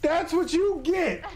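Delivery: high, slow sing-song gloat; slow gloating taunt. Real, not acted. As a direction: drag it out to tease.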